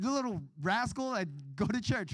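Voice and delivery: lightly imitated high scolding mom; scolding mother. Mom rousing her son for church, mild mock scolding. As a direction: pitch it up like a mock-cross mother.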